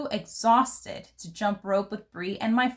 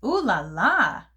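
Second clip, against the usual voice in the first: ooh la la; 4 dB louder than usual. Acted. Nancy savouring fancy French.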